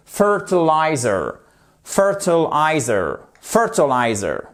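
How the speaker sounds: "Fertilizer", slow, the weight on "FER"; stress on first syllable. Shown as a demonstration. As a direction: hit "FER" in "Fertilizer" and let the rest fall. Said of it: "accent tonique sur la première syllabe". (accent tonique sur "FER" de "Fertilizer")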